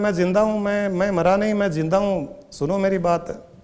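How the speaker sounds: lightly acted plea to be believed; urgent pleading. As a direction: plead with the children to listen. Dead man pleads with his children.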